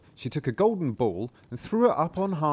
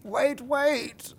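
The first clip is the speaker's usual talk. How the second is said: much higher frog cry; frog calling out. Acted. Frog left behind, calling high after the princess. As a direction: call after her, pleading.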